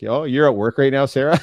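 mock surprised tease; playful gotcha to daughter; teasing. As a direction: call her out playfully. Teasing daughter caught watching at work.

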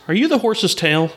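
lightly put-on circus host voice; clown host. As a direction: ask it like a clown working the crowd. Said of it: "He looks at the clown again".

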